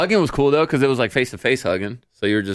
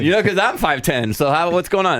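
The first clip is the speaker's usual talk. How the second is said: high, puzzled mock voice; confused guy voice; 7 semitones higher than usual. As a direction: act out a baffled guy, laughing. Voicing confused tall dude.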